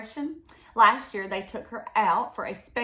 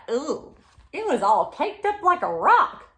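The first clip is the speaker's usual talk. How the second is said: surprised ooh; 6 semitones higher, 6 dB louder than usual. Acted. Reading, reacts to caked sugar.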